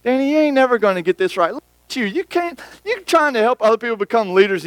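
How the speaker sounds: a hint of a scornful devil; devil's accusing voice. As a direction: taunt him like the accuser in his head. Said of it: "He attacks my heart with accusations".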